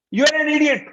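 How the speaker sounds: high, loud angry insult. Shown as a demonstration. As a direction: bark the insult hard and high. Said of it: "When you raise your voice".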